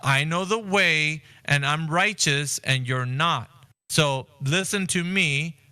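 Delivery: slow, self-righteous put-down; smug lecturing. Retold or imitated. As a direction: talk down to them, slowly and sure of yourself. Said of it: "it sounds like you're telling them".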